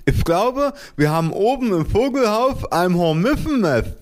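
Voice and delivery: very high, muffled lisping mother; whispering mother. A narrator's reading. Mother reporting a hornets' nest, high and muffled. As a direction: talk high as if the mouth is swollen. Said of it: "flüsterte sie".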